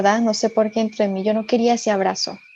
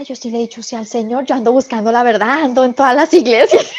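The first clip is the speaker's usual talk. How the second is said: mock protest; 2 semitones higher, 3 dB louder than usual. Woman insists to the priest she seeks truth, playful indignation. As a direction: protest your case, growing louder towards a laugh.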